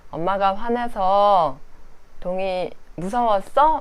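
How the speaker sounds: slow, gentle comforting question; soothing. Retold or imitated. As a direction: comfort the scared toddler slowly. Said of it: "이런 식으로 전 달래줘요".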